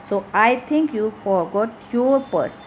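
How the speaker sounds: "your" given the weight; stress on your. Shown as a demonstration. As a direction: lean on "your" before "purse". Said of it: "importance is given to your word".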